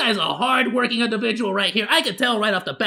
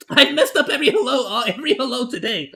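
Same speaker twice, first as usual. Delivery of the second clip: loud laugh through the words; 6 dB louder than usual. Real, not acted. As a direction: crack up at your own mistake. Laughing at his own flub.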